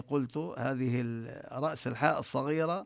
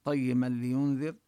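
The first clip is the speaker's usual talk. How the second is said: recitation. Shown as a demonstration. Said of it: "يبدأ من الآية الثانية".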